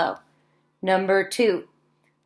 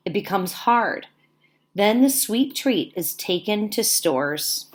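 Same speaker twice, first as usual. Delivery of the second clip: put-on reading to children; 3 dB louder than usual. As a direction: read each sentence to the class with care. Teacher reads book to class.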